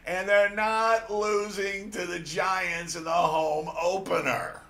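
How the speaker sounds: loud, high, slowed heated protest; heated shout. Real, not acted. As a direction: shout it in disbelief. Heated disagreement over the pick.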